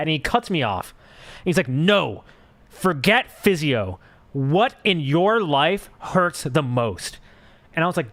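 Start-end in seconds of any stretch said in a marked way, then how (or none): 1.7-7.2 slow, dismissive doctor brushing off the patient; condescending doctor. Retold or imitated. Doctor cuts off patient who mentions physio, slow condescending mock. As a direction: drag it out like he knows better, mock talking down. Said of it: "he was super condescending".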